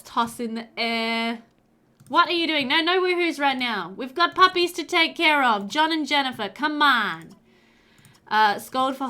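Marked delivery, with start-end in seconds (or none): 2.1-7.3 raised, louder telling-off; playful scolding. Real, not acted. Player telling John and Jennifer there are puppies to care for, scolding. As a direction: chide them, pitched up and insistent.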